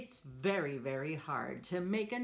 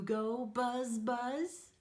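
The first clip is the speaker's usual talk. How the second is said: buzzing; 5 semitones higher, much slower than usual. Acted. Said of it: "He can sound like a bee".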